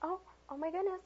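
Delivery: delight climbing high in pitch; gushing welcome. Shown as a demonstration. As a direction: gush over the child's arrival. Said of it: "you're just like".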